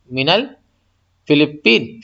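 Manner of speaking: very slow, syllable-by-syllable Arabic phrase; slow careful repeat. Shown as a demonstration. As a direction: stretch الفلپین out after stumbling.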